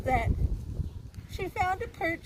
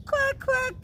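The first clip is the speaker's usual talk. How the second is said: high-pitched quacks; ducks quacking; 10 semitones higher than usual. Acted. Ducks answer the kitten, high quacking. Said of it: "said the ducks".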